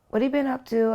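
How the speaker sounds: high lilting question; Michael's sing-song. Retold or imitated. Michael teasing her on the phone, high and sing-song. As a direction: let the question bounce like a tune. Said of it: "has a way of sing-songing".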